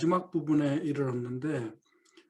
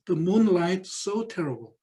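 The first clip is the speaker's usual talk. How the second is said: 1 dreamy Emily; 2 semitones higher, much slower than usual. Acted. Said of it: "에밀리가 하는 말이에요".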